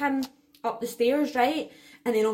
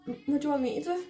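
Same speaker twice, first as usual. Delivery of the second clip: a touch higher, quick offhand question; lightly voiced dad; 3 semitones higher, 4 dB quieter, faster than usual. Dad answers her phone call about the rat, lightly imitated. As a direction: toss it off like an unbothered dad. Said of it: "and my dad's like".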